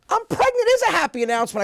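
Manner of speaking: very high, loud mock wail; mock upset wife. Pregnant wife correcting husband, shrieky mock upset. Wife retorts in acted quarrel.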